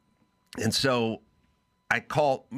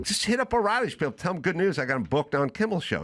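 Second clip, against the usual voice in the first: eager retold urging; 5 semitones higher, faster than usual.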